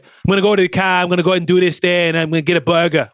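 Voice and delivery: put-on quick, light Boston accent; dropped-r Boston accent, tossed off. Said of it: "I'm gonna do the Boston accent".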